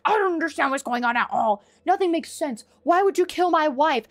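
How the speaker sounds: rising into mock outrage by the end; mock bewildered Ethan. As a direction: imitate a baffled man protesting. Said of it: "he's like".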